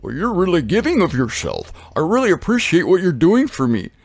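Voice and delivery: lightly voiced grateful rhino; swooping, appreciative animal character, lightly put on; gushing a little as the thankful rhino. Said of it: "So the rhino looks back".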